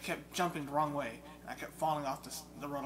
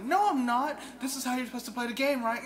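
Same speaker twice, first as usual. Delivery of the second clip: higher, louder, fast teasing reply; mock-innocent gamer teasing his friend; cocky retort; 10 semitones higher, 9 dB louder than usual. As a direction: brush him off smugly at speed.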